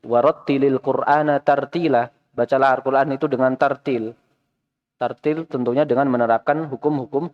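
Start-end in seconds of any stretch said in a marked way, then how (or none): 0.0-2.1 slow, measured Quranic recitation; recited verse. Shown as a demonstration. Teacher quotes the verse in a recitation tone. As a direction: intone "Warattilil Qur'ana tartila" slowly like a recitation.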